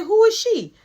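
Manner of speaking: high, loud repeated challenge; imitated insistent demand. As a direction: act out a woman refusing to be dodged. Repeats jealous demand over him.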